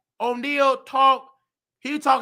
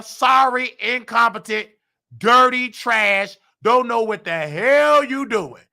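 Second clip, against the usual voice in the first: louder, slowed, spitting insults; slow, scornful insult list; angry; 4 dB louder than usual. Real, not acted. Listing insults at nurse.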